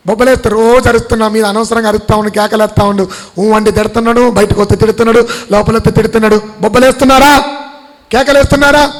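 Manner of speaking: rattling off a mock complaint, building to loud questions; insistent pulpit delivery, rising at the end; animated preaching. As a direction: preach it as a mounting grievance. Voices complaint, then challenges congregation.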